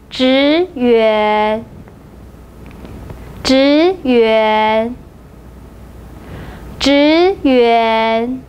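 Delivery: 职员 said slowly with both syllables drawn out; model pronunciation. Shown as a demonstration. Teacher has everybody repeat after her, 职员 drawn out clearly. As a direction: model 职员 evenly, leaving room to echo it. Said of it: "repeat after me three times".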